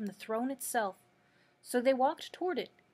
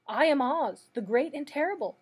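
frightened, high and loud announcement; acted fear, pitched up and louder; trembling voice; 4 semitones higher, 6 dB louder than usual. A narrator's reading. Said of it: "in a trembling voice".

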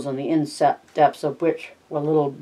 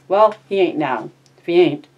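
curt and a bit louder; brusque; 3 semitones higher, 4 dB louder than usual. Acted. George brushes off Curly's wife, curt and brusque. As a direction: cut her off short. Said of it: "George brusquely".

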